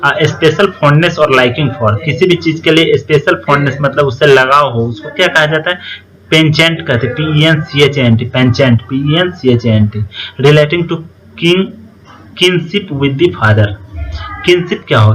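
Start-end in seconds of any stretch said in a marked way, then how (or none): 0.1-2.0 very slow, word by word; slow, careful dictation pace. Shown as a demonstration. Dictating English definition slowly. 10.4-13.7 very slow, word by word; slow, careful dictation pace. Shown as a demonstration. Dictating English definition slowly.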